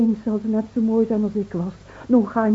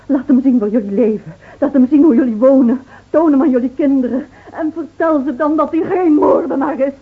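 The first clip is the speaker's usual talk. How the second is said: impassioned cry; 5 semitones higher, 7 dB louder than usual. Acted. Roept vurig tot de gendarmes.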